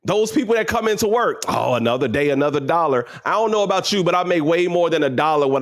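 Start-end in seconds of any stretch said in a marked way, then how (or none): 1.5-3.0 lower, dragging weary worker; mock the tired coworker's slogan.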